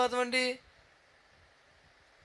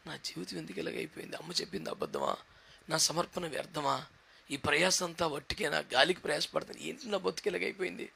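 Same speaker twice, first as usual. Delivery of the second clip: much softer, lower despairing questions; sad lament; 3 semitones lower, 9 dB quieter than usual. Acted. Moses asking why his life came to this, soft and sad. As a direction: let it sink into quiet despair.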